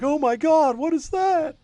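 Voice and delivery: high, loud awed gasp; wide-eyed amazement; awed bartender. Acted. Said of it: "He's like".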